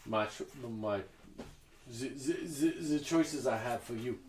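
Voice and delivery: put-on halting, lightly done French accent. Shopkeeper showing a customer her choices, mock French accent. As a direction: present the goods with an attempted French accent. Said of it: "pretend this is in a French accent".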